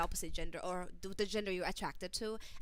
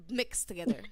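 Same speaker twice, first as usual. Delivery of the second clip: whisper. Shown as a demonstration. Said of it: "is this love class or love coaching?".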